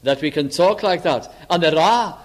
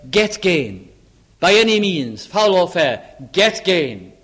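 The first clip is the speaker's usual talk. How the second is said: rising to a hard, louder demand on by any means; harsh loud command; 3 semitones higher, 5 dB louder, slower than usual. Acted. Preacher voicing the Bible's brutal command, forceful and loud. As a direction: bark it out like a ruthless order. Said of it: "the very almost cruel, uh, brutal words".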